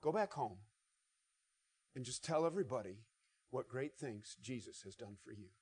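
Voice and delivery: soft, fading tender instruction; Jesus quietly sending the man home; gentle Jesus. Retold or imitated. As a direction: send him home kindly. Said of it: "He says".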